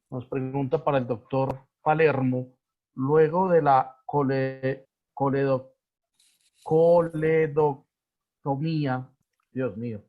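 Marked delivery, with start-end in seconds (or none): 4.1-9.1 slow, halting syllables on "coledoctomía"; struggling pronunciation. Real, not acted. Host stumbling over a medical term, struggling to pronounce it. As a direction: sound out "coledoctomía" piece by piece.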